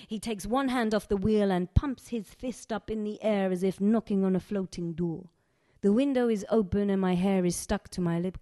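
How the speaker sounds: lightly voiced Egyptian accent, poem read in character; a hint of an Egyptian accent from Sharifa telling her story. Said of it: "fully allowed to do this accent".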